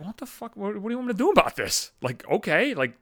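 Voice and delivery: a lightly put-on McNabb, baffled and fed up; exasperated coworker. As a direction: coworker woken by a 4 a.m. text, exasperated. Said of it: "And he's like".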